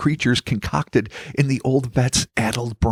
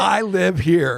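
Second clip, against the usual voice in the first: higher, silly version of the line; high comic take; 7 semitones higher, slower than usual. Acted. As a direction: ham it up, pitched up. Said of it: "How many ways can I do it?".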